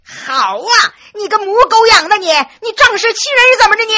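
high, loud tirade of abuse; furious cursing. A narrator's reading. Slapped boy swears at his attacker, high furious yelling. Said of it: "破口大骂呀".

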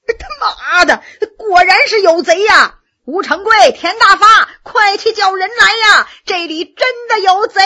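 high, loud panicked yelling; weird shriek. A narrator's reading. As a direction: screech to his mates that thieves are here. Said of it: "怪叫一声".

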